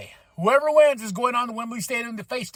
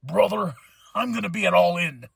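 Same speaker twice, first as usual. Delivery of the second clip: mock Don voice. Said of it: "But he's like".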